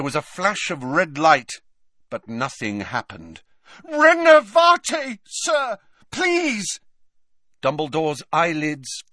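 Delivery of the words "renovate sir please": high, loud spell dropping to a plea; frantic cry. A narrator's reading. Harry trying to revive Dumbledore, frantic pleading. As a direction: call out desperately, then beg.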